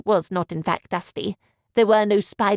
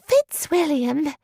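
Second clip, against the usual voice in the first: slow, higher mock scolding; faux angry; 6 semitones higher, much slower than usual. A narrator's reading. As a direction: pretend cross calling. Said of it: "a faux angry tone".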